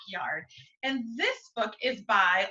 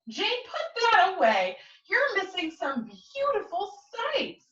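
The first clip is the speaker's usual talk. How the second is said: higher, lightly voiced mom; mom telling off; 8 semitones higher, slower than usual. Mom telling Jane to put the phone away, lightly scolding. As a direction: nudge your daughter off the phone.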